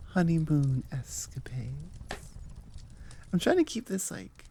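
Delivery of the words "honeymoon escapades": coy whisper. Real, not acted. Coy innuendo about the newlyweds.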